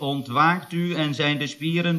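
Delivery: slow, measured hypnotic patter; imitated hypnotist. Assistant quoting Fons waking the patient, slow and measured. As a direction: lightly imitate a hypnotist, drawing out the ending. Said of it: "toen zei Fons dus iets van".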